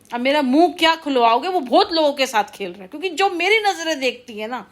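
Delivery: indignant, pitch pushed up; worked-up, emphatic telling-off; heated accusation. Real, not acted. Heated warning to unnamed wrongdoer.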